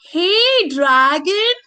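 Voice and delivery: high, loud drawn-out call; shout. Acted. Princess trying to wake the dragon, shouting. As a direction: call out sharply to rouse a sleeper. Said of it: "she shouted a little louder".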